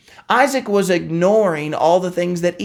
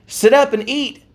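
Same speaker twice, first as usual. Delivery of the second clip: eager Esau; 7 semitones higher than usual. Retold or imitated. Retelling Esau entering.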